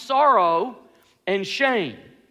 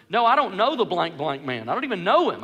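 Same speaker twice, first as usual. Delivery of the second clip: mild mock cursing; 4 semitones lower than usual. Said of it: "he's even cursing".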